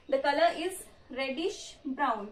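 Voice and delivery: very slow, word-by-word dictation; drawn-out, measured teacher's dictation. Real, not acted. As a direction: dictate slowly for students writing notes. Dictating the note after explaining it.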